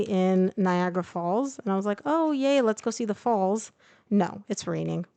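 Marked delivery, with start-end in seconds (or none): 2.0-3.7 mock excitement. Streamer recalling her Niagara Falls plan before the rain, mock excitement. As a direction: lightly act out an eager sightseer.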